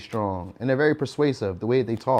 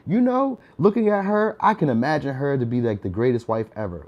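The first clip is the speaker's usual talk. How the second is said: mock sincere man; 2 semitones higher than usual. Men never say this about women, mock dreamy. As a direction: play a man pretending to be pure-hearted. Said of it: "we don't really say".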